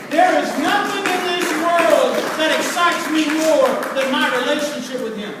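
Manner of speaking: loud, fervent declaration; fervent preaching. Real, not acted. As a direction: proclaim it with full conviction. Preaches at full force.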